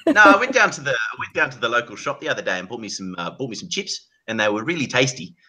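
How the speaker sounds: put-on New Zealand accent. Friends guessing Australian or New Zealand, New Zealand accent. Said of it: "That's gotta be New Zealand".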